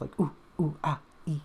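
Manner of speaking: ooh and ah at a spicy taste; sharp spice noises. Shown as a demonstration. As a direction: mimic a sharp bite of spice. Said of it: "you just want that sharp".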